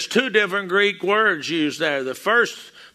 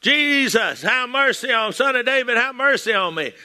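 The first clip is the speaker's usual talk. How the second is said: raised, higher cry for mercy; a beggar's raised plea; hollering out; 5 semitones higher than usual. Retold or imitated. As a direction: call out to Jesus, pleading. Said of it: "he hollered out".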